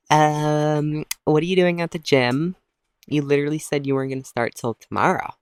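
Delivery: lightly voiced nosy lady; mildly put-on lady voice; weird lady. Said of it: "like, some weird freaking lady".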